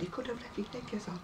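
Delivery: very soft imitation of a discreet nurse; hushed, confidential retelling; retold whisper. Nurse discreetly tells the undressed patient, whispered retelling. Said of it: "the nurse who whispered to me".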